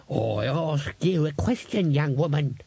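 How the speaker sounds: put-on high, slow, scolding old codger; stern old man. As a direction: lecture the young woman.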